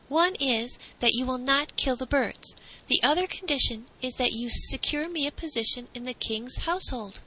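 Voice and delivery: put-on bargaining boy. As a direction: set out terms as the boy.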